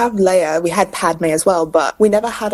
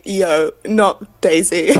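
laughing quote; much slower than usual. Retold or imitated. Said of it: "making a post on Instagram being like".

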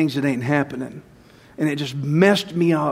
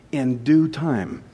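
In due time, drawn out slowly and softer; slow, soft repeat; 4 semitones lower, 4 dB quieter, much slower than usual. Shown as a demonstration. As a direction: let "In due time" sink in, slow and quiet.

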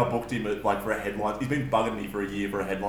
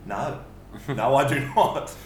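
put-on old nana; slower than usual. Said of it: "The nana at the front ... was going".

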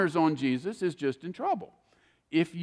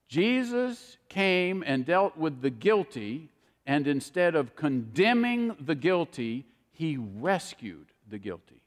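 slow, weighty preacher's cadence; slow emphatic preaching. Acted. Pastor to congregation, slow and weighty. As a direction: lean on each phrase to drive the point home.

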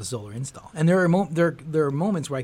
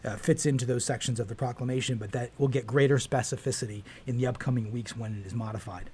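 speaking through a mask. Real, not acted. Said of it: "I'm actually speaking through a mask".

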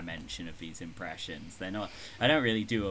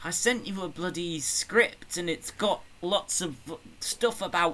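high mock co-host with an attempted northern accent; Richard Miller impression; 5 semitones higher than usual. Co-host nagging Jack about a script, high mock voice. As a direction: poke fun in a high put-on voice. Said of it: "you can't do a northern accent".

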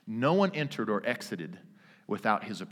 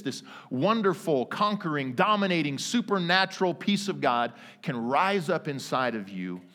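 building praise; 4 semitones higher than usual. Acted.

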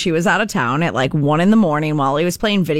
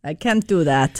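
put-on Australian accent; 3 semitones lower than usual. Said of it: "was that your, your Australian?".

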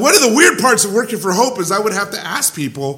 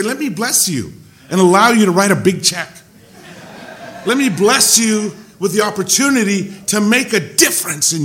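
playful pitch to the rich. Retold or imitated.

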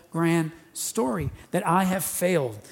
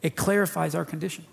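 quick restatement; much faster than usual. Shown as a demonstration. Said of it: "Do y'all hear what I said there?".

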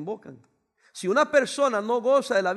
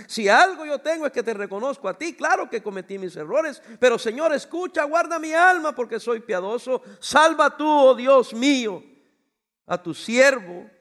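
pleading prayer; 3 semitones higher, 5 dB louder than usual. Acted. Preacher voices David's plea.

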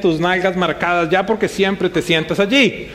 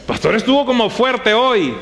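complaining churchgoer; 5 semitones higher than usual. Acted.

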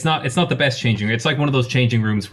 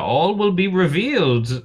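cryptic caller; 7 semitones higher than usual. Acted. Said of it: "he says".

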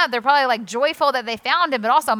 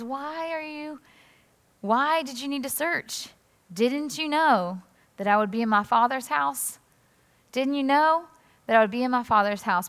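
calm Jesus; 2 semitones higher than usual. Retold or imitated. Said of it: "Jesus responds in a very calm way".

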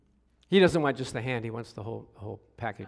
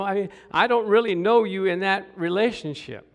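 mock objection; 3 semitones higher, 5 dB louder than usual. Men objecting to calling God dad.

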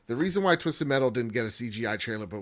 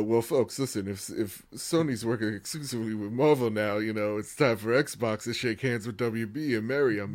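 pundit voice. Retold or imitated. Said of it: "I don't wanna be like one of those".

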